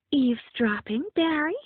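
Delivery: high, questioning reproach; chiding. A narrator's reading. Friend catching the boyfriend eavesdropping, chiding. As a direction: scold lightly with a rising, accusing question. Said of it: "shot him a chiding frown".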